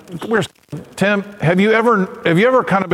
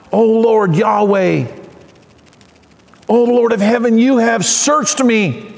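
prayerful reading. Retold or imitated. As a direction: read it like an intimate prayer. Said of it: "We hear the prayerful tone".

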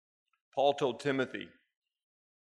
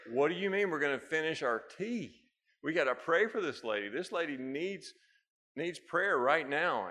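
higher, louder, panicked protest; freaking out; 4 semitones higher, 5 dB louder than usual. Retold or imitated. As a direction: retell your alarm, loud and urgent. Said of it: "I am freaking out".

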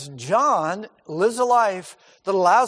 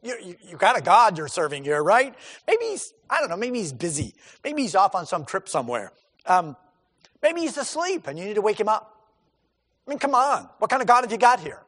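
mocking. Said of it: "Elijah mocks them and says".

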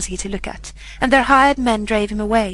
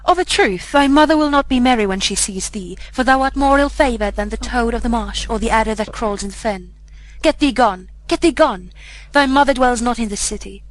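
put-on soldier jeering at the beggar child, half-raised voice; crying out. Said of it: "and cried".

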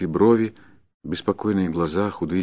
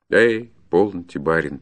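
vexed. Acted. Forester cuts off the gentleman's praise, mildly vexed. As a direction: brush the praise aside with irritation. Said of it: "перебил он меня с досадой".

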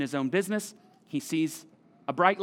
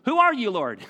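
dumbfounded; 5 semitones higher, 6 dB louder than usual. Acted. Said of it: "dumbfounded, confused by all this".

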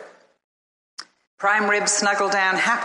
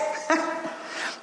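delighted laugh; 9 semitones higher, 6 dB quieter than usual. Acted. Adam exults.

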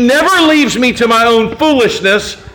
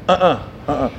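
head-shake no; 7 semitones lower, 6 dB quieter, faster than usual. Shown as a demonstration. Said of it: "Everybody say, do this with your head".

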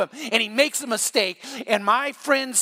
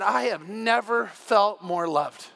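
tender; slower than usual. Retold or imitated. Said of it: "his dad said".

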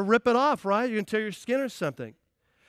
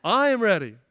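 louder, higher, raring to go; eager husband; 4 semitones higher, 8 dB louder than usual. Retold or imitated. Preacher voicing the groom hearing his bride, eager and loud. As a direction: half-shout it like a keen groom. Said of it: "He's like".

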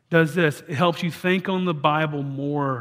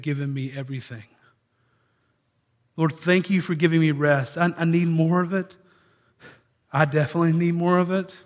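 demonstration prayer. Shown as a demonstration. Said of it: "read through the Scriptures and pray".

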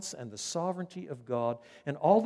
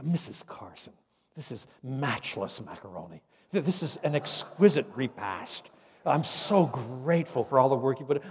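imitating an effusive professor; 4 dB louder than usual. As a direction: ham up the flowery praise a little. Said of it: "and he, he would say".

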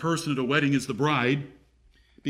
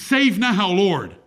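crowd's cry; 2 semitones higher, 4 dB louder, slower than usual. Acted. Crowd's cry quoted in sermon.

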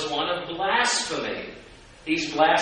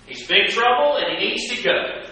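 higher, louder accusing cry; mock outraged verdict; 7 semitones higher, 4 dB louder than usual. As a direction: call him trouble like the accusers. Voicing critics' verdict.

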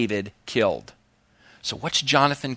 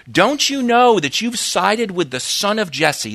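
raised, heated reading of an angry king; Saul's curse, read with force; 4 semitones higher than usual. Retold or imitated. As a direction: let Saul's rage come through the scripture. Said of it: "So he says".

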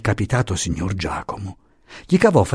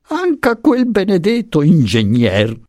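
higher, slower grumble to himself; exasperated, muttered outburst; half-to-himself exclamation; 9 semitones higher, 4 dB louder, slower than usual. A narrator's reading. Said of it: "esclamò, quasi parlando tra sé".

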